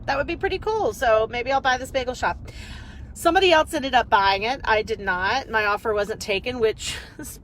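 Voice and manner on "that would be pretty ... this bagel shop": musing to herself. Retold or imitated. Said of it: "I was like".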